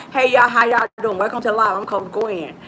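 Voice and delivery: talking while hiding her gap; lightly voiced mock self hiding a gap; a hint of a masked version of herself. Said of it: "try to talk like this".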